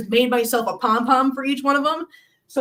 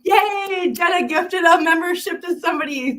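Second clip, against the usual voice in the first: excited cheer; 5 semitones higher than usual. Real, not acted. Cheering Jenna for gifting a membership, excited shout.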